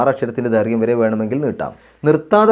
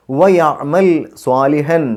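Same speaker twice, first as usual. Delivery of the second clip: slow, drawn-out chanted recitation; measured Quranic chant; 2 semitones higher, much slower than usual. Shown as a demonstration. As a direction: recite it slowly with tajweed.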